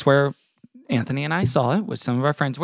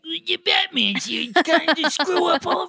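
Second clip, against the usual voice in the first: put-on Brooklyn cop accent. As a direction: grumble like a Brooklyn street cop. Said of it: "sound like Grand Theft Auto characters".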